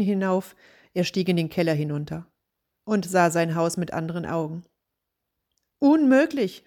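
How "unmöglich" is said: high, loud shout of dismay; loud cry of disbelief. A narrator's reading. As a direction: shout it out in horror. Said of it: "schrie er".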